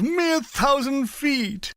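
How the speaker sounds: lazy W C Fields, stretched out; W C Fields impression. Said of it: "I continued in the same voice".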